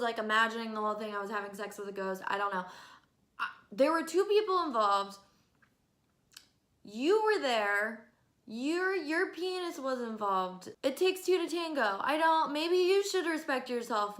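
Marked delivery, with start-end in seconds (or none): 3.4-10.7 fed-up louder retort; exasperated repeat. Real, not acted. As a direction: raise it, hammer home "people". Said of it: "repeated point, louder".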